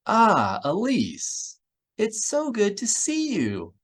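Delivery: high gushing voice spoken into a shoulder; hugging him, gushing; muffled gushing. A narrator's reading. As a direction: gush muffled against him. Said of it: "her voice oddly muffled".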